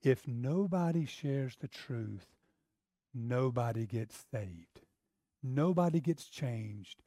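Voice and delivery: slow, low and grave; a lightly voiced solemn God. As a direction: speak as God, slowly. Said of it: "And God's like".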